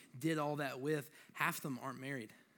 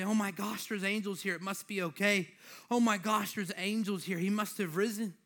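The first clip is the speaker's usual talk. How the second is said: mildly awed exclamations, higher pitch; marvelling; 4 semitones higher, 4 dB louder than usual. Acted. Imagining Mary seeing angels at the tomb, marvelling. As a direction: exclaim in mock amazement at angels. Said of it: "look up at them and marvel".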